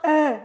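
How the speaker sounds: "eh" opened far too wide; overdone open vowel. Shown as a demonstration. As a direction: exaggerate the open sound of "eh". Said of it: "Not too much, and not". ("eh" exagérément ouvert)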